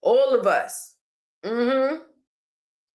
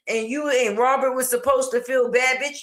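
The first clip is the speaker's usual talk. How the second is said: heated. Real, not acted. Ranting at the cousin.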